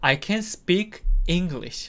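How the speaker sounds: stress on speak, can kept light. English lesson in Korean on an affirmative sentence: stress on speak. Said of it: "할 수 있다라고 할 때는 동사에 강세를 주시면 됩니다".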